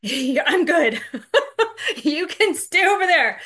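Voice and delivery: high, laughing brush-off; mock-polite refusal, high and amused. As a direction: laugh them off, keep your distance. Guys mockingly refusing her.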